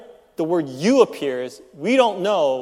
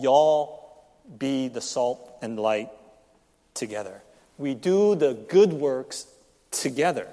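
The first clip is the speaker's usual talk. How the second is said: Southern y'all; 2 semitones lower, slower than usual. Shown as a demonstration. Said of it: "Southern accent version of the Bible".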